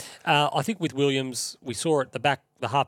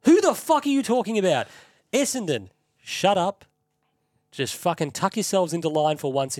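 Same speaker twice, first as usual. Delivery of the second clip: higher, louder exasperated shout; furious rant; 5 semitones higher, 3 dB louder than usual. Real, not acted. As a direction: yell at the rival club to shut up. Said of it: "I'm gonna do a quick rant".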